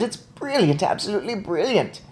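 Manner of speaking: mock shout. A narrator's reading. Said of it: "and she shouted".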